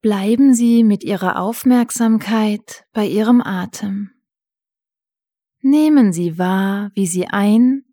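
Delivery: calm guided breathing; soothing spa whisper. Acted.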